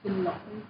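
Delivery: "lỗi" dipped down and lifted up; teacher's demo of falling-rising "lỗi"; dipping tone. Shown as a demonstration. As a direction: let "lỗi" go down, then rise. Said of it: "down and up".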